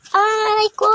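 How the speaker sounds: pained cry. Acted. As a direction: yelp it out like you just got hurt. Pushed and hurt, crying out. (sigaw sa sakit)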